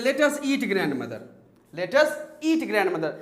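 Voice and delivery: slow "eat grandmother" run together, falling; no comma pause. Shown as a demonstration. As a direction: join eat straight onto grandmother. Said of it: "जब आप comma नहीं देते". (eat grandmother बिना ठहराव)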